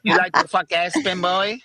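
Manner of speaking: mock Asian accent. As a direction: tease Spin in a put-on Asian accent. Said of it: "Now you sound like a Chinese".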